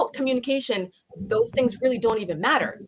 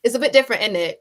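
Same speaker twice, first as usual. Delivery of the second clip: casual London accent, a bit louder; 5 dB louder than usual. Shown as a demonstration. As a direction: toss it off like a London lad. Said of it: "but London would be like".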